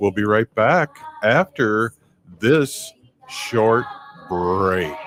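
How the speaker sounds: deliberately slow, stretched-out, drawn-out pace. A host sends the show to a short break, stretching the last seconds: slow, drawn-out delivery. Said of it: "See how I said that slow".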